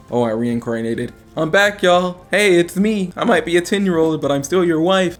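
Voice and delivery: high, bubbly returning wife; his brain imagining the reborn wife, in a high chirpy voice. Retold or imitated. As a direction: bounce in cheerily announcing you're back. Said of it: "my brain is like".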